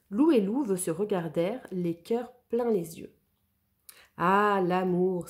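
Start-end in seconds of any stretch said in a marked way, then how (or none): 4.2-5.3 slow, tender marveling sigh; tender wonder. Acted. Gros Louis watching the two lovers, slow tender marvel. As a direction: melt at the sight of love. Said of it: "s'émerveilla Gros Louis, attendri".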